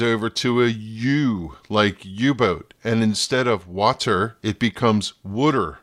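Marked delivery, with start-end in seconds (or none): 5.2-5.8 "wooder" said like W plus udder; "wooder" with a muddy D and U vowel; Philly wooder. Shown as a demonstration. Host showing the Jersey-Philly way to say water, wooder. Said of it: "Think of W followed by udder".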